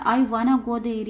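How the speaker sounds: slow, clear example for students; teacher reading it out slowly to the class; slow model sentence. Shown as a demonstration. Teacher models the sentence, slow and clear. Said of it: "पहला example है".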